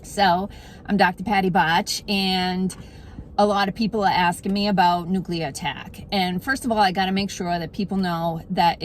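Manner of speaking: put-on thick Boston accent throughout. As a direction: talk like a local from Boston. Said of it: "bust out my Boston accent".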